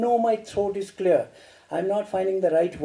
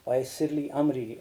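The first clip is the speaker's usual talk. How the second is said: recited prayer; 5 semitones lower, 7 dB quieter, faster than usual. Shown as a demonstration. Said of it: "That's a wonderful prayer".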